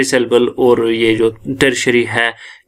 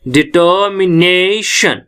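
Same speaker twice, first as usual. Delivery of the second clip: "डिटर्मिनेशन" slowly, with "ने" stretched and stressed; 3 semitones higher, slower than usual. Shown as a demonstration. Teacher asks class to listen to the sound, stressing "ने" in "डिटर्मिनेशन". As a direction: lean on the "ने" in "डिटर्मिनेशन". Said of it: "ने पे हमारा stress पड़ रहा है".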